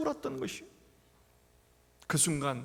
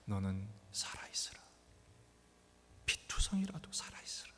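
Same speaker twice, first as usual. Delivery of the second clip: hushed whisper; 9 semitones lower, 10 dB quieter than usual. Acted. God's words whispered in sermon.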